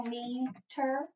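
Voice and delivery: "meter" with a long, held ee in the first syllable; long first vowel. Shown as a demonstration. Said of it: "long vowel sound in that first syllable".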